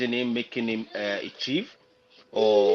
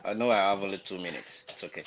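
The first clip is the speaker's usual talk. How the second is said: mouth full; 2 semitones lower than usual. Real, not acted. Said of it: "I'm eating something in my mouth".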